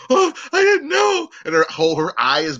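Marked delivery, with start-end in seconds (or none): 0.1-1.3 put-on high, innocent little girl voice. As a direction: play the wide-eyed girl caught out. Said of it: "She was like".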